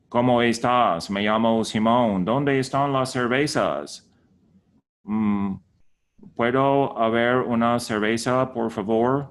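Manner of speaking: put-on Spanish with a light American gringo accent. Mocking an American tourist in Spanish, light gringo accent. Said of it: "it's gringo Spanish".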